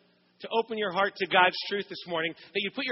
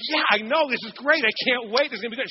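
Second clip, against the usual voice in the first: eager; 3 semitones higher, 4 dB louder than usual. Retold or imitated. Clueless husband cheerfully agrees.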